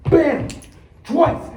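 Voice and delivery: high, explosive comic-book hits; triumphant action shout; shouted fight blows. Acted. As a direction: punch each word out hard and loud.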